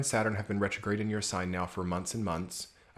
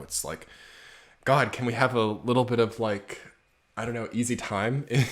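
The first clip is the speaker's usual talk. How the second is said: ordinary talk, nothing marked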